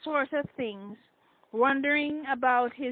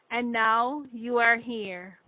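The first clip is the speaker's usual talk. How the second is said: slow, weighted words; with emphasis; slower than usual. A narrator's reading. Shane telling Alicia she is finally here, slow and emphatic. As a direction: lean on each word of it. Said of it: "he said with emphasis".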